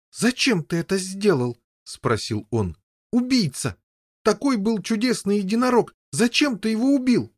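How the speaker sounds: high, heated accusing voice; angry accusation. Acted. Boy confronting older brother over killing. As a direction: confront him furiously.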